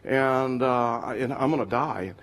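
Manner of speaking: low, subdued delivery of bad news; retold tearful confession. Dying man tells Jesus of his illness, mildly tearful retelling. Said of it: "this man's crying".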